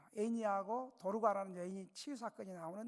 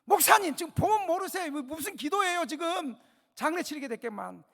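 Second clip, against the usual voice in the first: scornful retort; 6 semitones higher, 8 dB louder than usual. Retold or imitated. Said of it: "믿음 없는 여자가 하는 말이".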